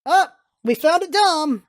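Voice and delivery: excited. Real, not acted. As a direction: gleefully call it out. Excited reaction to the character.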